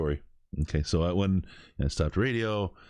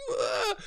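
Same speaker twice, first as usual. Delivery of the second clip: imitated yelp of alarm, raised pitch; mock cry on seeing danger rush in; startled cry; 5 semitones higher than usual. Startled man sees car coming.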